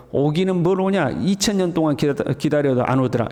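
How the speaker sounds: scoffing mockery. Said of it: "이 사람은 이제 비꼬는 사람이죠".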